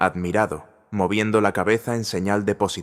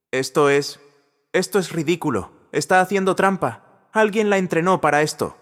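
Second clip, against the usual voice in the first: much higher, louder, stammering in alarm; a cornered man grasping for words; a pale manager blurting out a denial, rattled; panicked protest; 10 semitones higher, 4 dB louder than usual. A narrator's reading.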